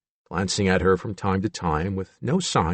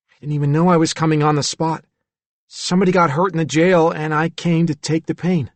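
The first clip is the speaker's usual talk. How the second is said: lightly voiced timid boy, a bit higher; a hint of a troubled child confiding; frightened child figure; 7 semitones higher, 3 dB louder than usual.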